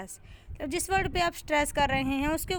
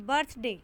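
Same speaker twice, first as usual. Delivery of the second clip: बर्थडे with weight on the first syllable; stress on BIRTH in बर्थडे; 2 semitones lower than usual. Shown as a demonstration. Teacher demonstrating syllable stress, बर्थ stressed in बर्थडे. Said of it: "बर्थ पे हम focus करेंगे और डे पे नहीं".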